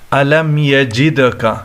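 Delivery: echoing bounce on the d of یجد; یجد with a short bounced "duh"; qalqalah. Shown as a demonstration. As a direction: recite slowly, letting the d in یجد rebound. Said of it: "اس پہ قلقلہ ہوگا".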